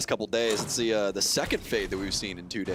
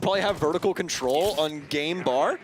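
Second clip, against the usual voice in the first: mock-serious question, raised; feigned disbelief, dripping sarcasm; sarcastic; 7 semitones higher than usual. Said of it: "That was sarcasm".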